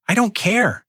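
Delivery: high-pitched, hammed-up roar. Son-in-law roaring at the old man in the kitchen, furious. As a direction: roar it out in rage. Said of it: "Nolan roared".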